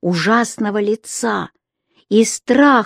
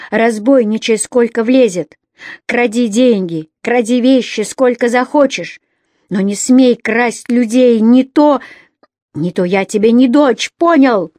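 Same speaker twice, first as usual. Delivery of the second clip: angry defiance; 3 semitones higher, 4 dB louder than usual. Acted. Рони defies her father.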